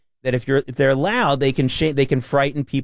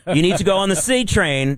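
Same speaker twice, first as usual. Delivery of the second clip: mock crazy-guy yell; 6 semitones higher than usual. Host recalls yelling at a menacing subway rider, mock crazy-guy yell. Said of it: "I usually yell at them".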